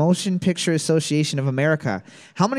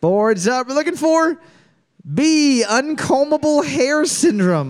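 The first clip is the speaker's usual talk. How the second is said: announcer call-out; 8 semitones higher, 3 dB louder than usual. Real, not acted. Host calls out trivia answer.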